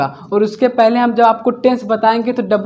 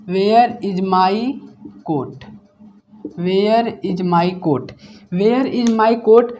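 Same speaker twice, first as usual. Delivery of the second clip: each word spoken slowly and separately; slow dictation; much slower than usual. Shown as a demonstration. Teacher dictating an English question to students, very slow. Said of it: "teacher dictating the English question slowly".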